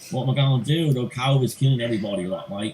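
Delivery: a clumsy Aussie impression at pace; terrible Australian accent. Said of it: "It's a terrible Australian accent".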